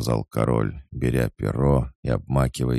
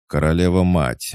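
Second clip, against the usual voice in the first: much higher, louder cry of disbelief; the name bursts out of him; the king exclaiming at the name, stunned; stunned exclamation; 7 semitones higher, 6 dB louder than usual. A narrator's reading. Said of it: "воскликнул Карл".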